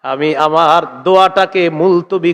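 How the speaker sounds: melodic chant with long held vowels; measured sung recitation; hadith recitation. Acted. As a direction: intone the hadith in a preacher's sing-song.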